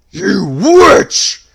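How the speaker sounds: high, piercing furious scream. A narrator's reading. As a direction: scream it in pain and rage. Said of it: "he screamed".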